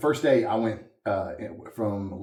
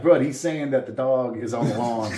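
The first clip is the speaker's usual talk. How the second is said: laughing translation; 5 dB louder than usual. Retold or imitated. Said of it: "That's what Cajuns do".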